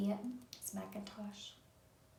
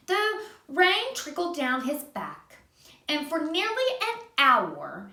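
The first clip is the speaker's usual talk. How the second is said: put-on gentle read-aloud for a child; reading to a little one; storybook narration. A narrator's reading. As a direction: tell it like a bedtime story. Reading a picture book aloud.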